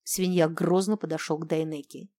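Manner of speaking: usual speaking voice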